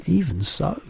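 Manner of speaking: put-on a small girl asking anxiously; high childlike voice; Sophie. A narrator's reading.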